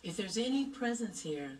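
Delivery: calling out to spirit. Real, not acted. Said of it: "why don't we call out".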